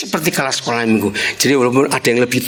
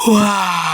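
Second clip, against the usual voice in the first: mock startled cry; 4 semitones higher than usual. Husband's reaction on seeing wife.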